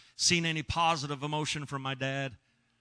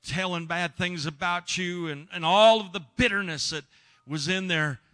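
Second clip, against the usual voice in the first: tumbling out louder, in a rush of emotion; babbling apology; 4 semitones higher, 5 dB louder than usual. Retold or imitated. Son babbling apologies to his estranged father, louder and emotional. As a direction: pour out the apology, near tears. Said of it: "I was babbling by then".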